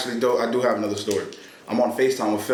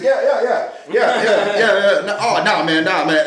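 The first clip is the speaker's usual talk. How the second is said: higher, louder rush of repeated words; flustered imitation; 7 semitones higher, 5 dB louder than usual. Imitating Phil after he dropped his phone, flustered. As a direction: imitate someone caught off guard, babbling. Acts out Phil's flustered reaction.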